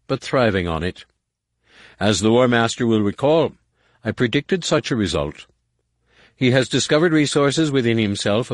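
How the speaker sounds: smooth, confident advisor; silky schemer. Acted. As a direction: persuasive court schemer. Nomanor explaining.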